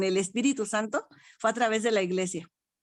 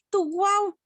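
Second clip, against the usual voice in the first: granddaughter's voice; 10 semitones higher than usual. Retold or imitated. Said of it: "llega y me dice".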